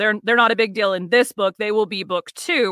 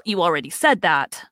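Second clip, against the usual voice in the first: put-on elderly woman voice; 3 semitones lower than usual. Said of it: "she states".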